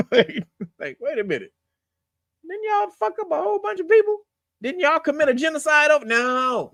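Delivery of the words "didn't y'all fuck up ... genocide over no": much higher, shouting in disbelief; mock outraged shout. Comedian mocking history lesson, high indignant shout. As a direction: yell the question like you can't believe it.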